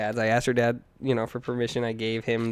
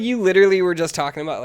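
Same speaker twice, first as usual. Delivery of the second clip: mock wife; 7 semitones higher, 8 dB louder than usual. Wife's suspicious reaction retold.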